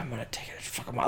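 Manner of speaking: stern, angry male voice, whispered. Retelling what the voice on the baby monitor says: imitating a stern, angry male voice. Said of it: "a very stern, angry male voice".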